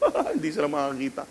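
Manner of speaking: acted chuckle at latecomers; put-on mocking laughter; mock laughing. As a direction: laugh lightly through the words, as if teasing. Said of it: "and you're laughing".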